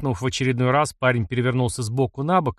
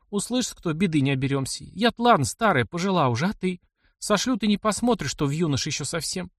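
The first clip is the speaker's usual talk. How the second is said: put-on lightly higher, anxious old woman begging him to hush; pleading aunt; 5 semitones higher than usual. Aunt begs Mishka not to speak against the nobles, anxious plea.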